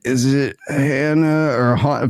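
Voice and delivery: "Hannah" with flat a, then "Han-" as "Hahn"; unsure name pronunciation. Retold or imitated. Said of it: "remember how to say her name".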